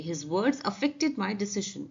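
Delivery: very slow, deliberate reread; slow careful model sentence; slow repeat. Shown as a demonstration. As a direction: spell out every word slowly for the class. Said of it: "teacher rereads example".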